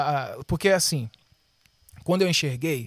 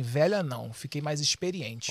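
offended retort; 5 semitones lower, 10 dB quieter, slower than usual. Retold or imitated. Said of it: "Ela fechou a cara e falou assim".

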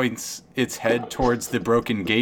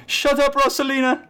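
snappy cow; 4 dB louder than usual. Acted. Cow snaps at another cow.

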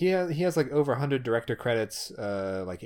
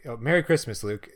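Donald Duck voice. Retold or imitated. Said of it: "if I was gonna say".

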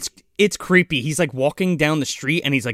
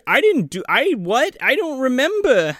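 confused panicked denial; 11 semitones higher than usual. Retold or imitated.

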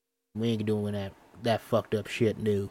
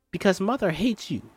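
taunting; 9 semitones higher, 4 dB louder than usual. Acted. Children quarreling.

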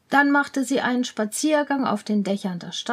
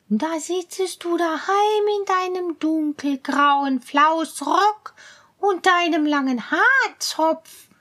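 higher, teasing cat voice; mocking cat; 5 semitones higher than usual. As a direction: sneer lightly like a sly cat. Cat mocks mouse.

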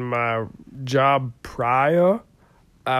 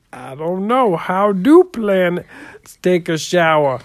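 coached audience reply; 4 semitones higher than usual. Shown as a demonstration. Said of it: "You're supposed to go".

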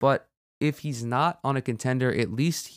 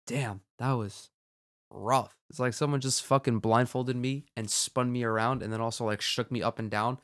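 dazed, slightly slurred words; slurred speech. Real, not acted. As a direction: talk a bit slurred and woozy. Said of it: "My speech is kinda slurred".

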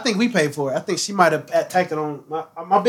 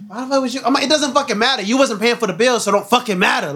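mildly heated retort, pitched up at first; retold annoyance; 4 semitones higher than usual. Boyfriend arguing with girlfriend over the bill, retold annoyance. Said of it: "I was tight".

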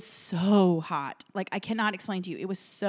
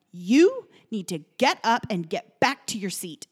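mild mock yell, louder on the opening; stern imitated reprimand; retold scolding; 6 dB louder than usual. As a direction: imitate a mean flight attendant ordering her back. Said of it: "flight attendant yelling at me".

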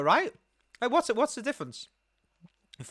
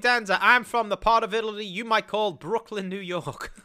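Tony Danza. Retold or imitated. Brit impersonating the actor for friends, mock Brooklyn accent. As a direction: parody Brooklyn Italian-American accent. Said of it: "my name's Tony Danza".

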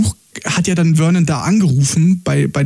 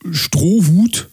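whisper. Real, not acted. Whispered punchline about straw hat.

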